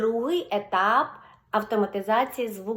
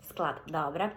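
usual speaking voice

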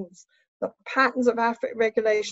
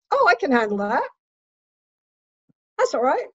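higher, reassured self-talk; mild relief; 4 semitones higher, faster than usual. Acted. Patient reassuring herself about the needle, mild relief. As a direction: talk yourself into coping. Imagined reaction to manageable dental pain.

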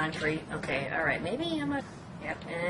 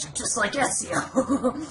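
laughing; 4 semitones higher, slower than usual. Retold or imitated. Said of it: "I'm like".

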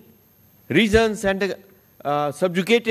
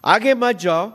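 pleading call; 5 semitones higher, 4 dB louder than usual. Retold or imitated. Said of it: "वे आपसे मांग कर रहे हैं".

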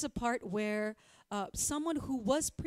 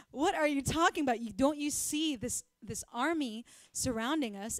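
exasperated servant; 3 semitones higher, 5 dB louder than usual. Acted. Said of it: "And the servant's like".

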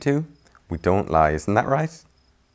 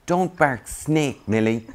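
scolding meerkats; 7 semitones higher, 5 dB louder, slower than usual. Acted. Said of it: "said the other meerkats".

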